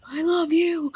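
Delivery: high-pitched mock gush; overjoyed little squeal, half laughing; gushing gratitude. Grateful patient to the nurse who skipped check-in, gushing.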